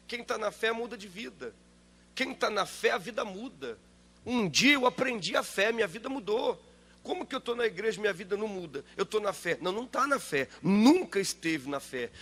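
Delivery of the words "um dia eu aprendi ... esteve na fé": preaching fervor. Real, not acted. Preacher's loud rising insistence.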